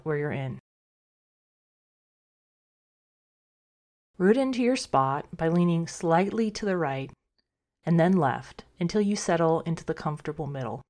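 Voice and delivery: calm, unhurried meditation guide with long pauses; guided meditation. Acted. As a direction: gently talk listeners into rest, a little softly. Leads a meditation.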